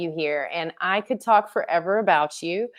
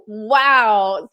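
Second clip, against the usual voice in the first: amazed wow; 3 semitones higher, 7 dB louder than usual. Retold or imitated. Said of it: "I was like".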